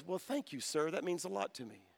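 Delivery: soft, quiet thanks; touched. Retold or imitated. Waitress thanking the pastor, soft and touched.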